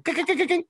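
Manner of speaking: high, quiet clinking ice noise; imitated ice clinking. Showing how he shook the glass, imitated clinking. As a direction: mimic ice rattling in a glass. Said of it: "the sound of the ice going".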